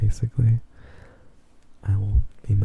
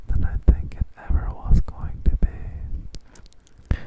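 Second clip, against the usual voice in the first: ASMR whisper; slower than usual. Real, not acted.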